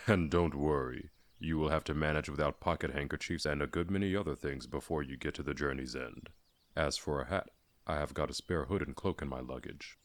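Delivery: gruff but kindly; Dwalin reassuring. Acted.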